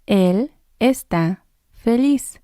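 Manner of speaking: slow and clear, each word laid out; slow model sentence. Shown as a demonstration. Teacher modelling for students, slow and careful. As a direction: say it slowly so learners can copy it. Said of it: "You say it too".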